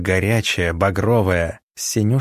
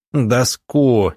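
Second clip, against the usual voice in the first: barked command; 2 semitones higher, 3 dB louder than usual. Acted. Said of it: "рявкнул Артём".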